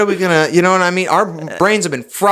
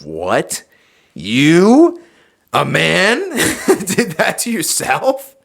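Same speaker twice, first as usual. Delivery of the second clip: incredulous foreigner; 5 semitones higher, much slower than usual. Retold or imitated. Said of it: "they'll be like".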